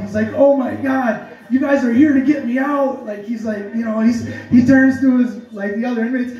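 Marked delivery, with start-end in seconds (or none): 0.3-3.1 excited. Retold or imitated. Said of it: "he's excited. He's, like, so pumped".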